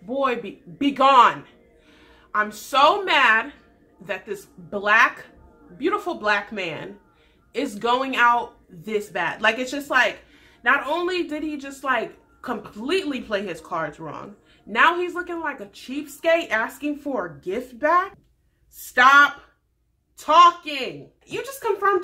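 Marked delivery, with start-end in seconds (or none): 0.0-9.4 louder, slow fed-up scolding; mock outrage. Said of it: "And I was just like". 18.7-22.0 loud cry at the screen; exasperated shout. Real, not acted. Viewer reacts to cringe.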